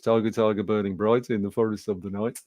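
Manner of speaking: broad Brummie schoolboy reading aloud; Birmingham accent. Retold or imitated. Pupil reading a poem to the class, Birmingham accent. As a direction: recite verse in a Birmingham accent. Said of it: "in my best Birmingham accent".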